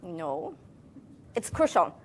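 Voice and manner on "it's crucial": the teacher stresses "crucial" for the class, gently weighted. Shown as a demonstration. Teacher to students, lightly stressing "crucial". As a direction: lean on "crucial", a touch more weight on the word. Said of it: "I'm really emphasizing the word crucial".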